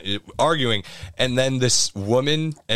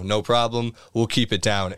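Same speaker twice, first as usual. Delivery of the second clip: calm, easygoing retold assurance; retold chill reply; 4 semitones lower than usual. Diner placating the woman from next booth, calm. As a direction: agree mildly, keeping it low. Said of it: "chill for a second".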